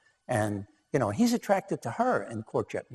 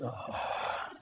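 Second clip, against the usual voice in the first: long, breathy mock sigh of dread; retold exasperated groan; 9 dB quieter than usual. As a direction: let out a soft, imitated groan. Retold husband's reaction to her request.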